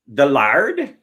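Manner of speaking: put-on "The lard?" in a pirate accent, lard with a broad ah, rising. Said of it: "you have to say "the lard" like a pirate".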